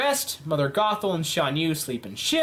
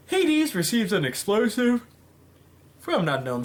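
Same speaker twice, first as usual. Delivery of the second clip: words stretched by a yawn; 3 semitones higher than usual. Real, not acted. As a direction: talk through a yawn. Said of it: "I'm sorry about that yawn".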